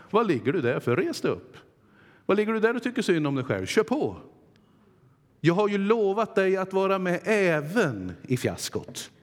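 stirring divine challenge, speeding up on the middle line; rousing God's voice. Acted. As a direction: shake him off the ground and push him on. God rousing a fallen Josua.

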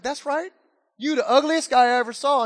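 lightly voiced cocky parrot; insulting parrot. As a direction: rub in the insult, pitch starting high. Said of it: "that parrot's like".

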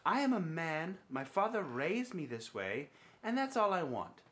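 hammed-up English accent reading a quote. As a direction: read it out in a mock English accent. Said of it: "in an English accent".

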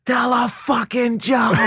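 put-on high, slow drunken heckler shout; hammed-up heckler yelling at a bombing comic; loud heckler. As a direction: bellow it from a back table at the comic. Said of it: "uh, loud".

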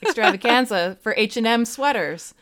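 mock excited gushing. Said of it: "You're like".

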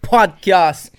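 slow, drawn-out show name; announcer voice. Acted.

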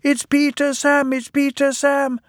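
very high, frantic cry; wailing. A narrator's reading. Empty trucks warn that it is the wrong engine, wailing. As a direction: squeal it out in alarm. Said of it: "wailed the empty trucks".

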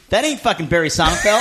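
imitated indignant shout; bouncer's yell. Bouncer exposing the fake ID, mock shout. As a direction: call out the lie at full volume.

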